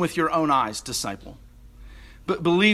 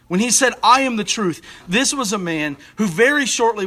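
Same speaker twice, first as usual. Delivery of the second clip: louder, higher declaration; rising preaching; 4 semitones higher, 4 dB louder than usual. Real, not acted. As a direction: build the claim with force.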